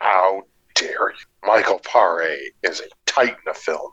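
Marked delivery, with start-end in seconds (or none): 0.0-1.2 mock offended. Mock outrage at an insult.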